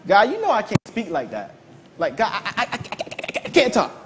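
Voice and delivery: mild mock stammer trailing to a breathy I, I, I; stammering Moses. Moses stammering to God that he cannot speak. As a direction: play a stuttering Moses pleading with God. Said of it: "stammering replies".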